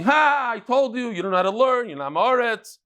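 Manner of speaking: a hint of a gloating debater. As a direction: gloat over a rival you've beaten. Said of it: "You start dancing".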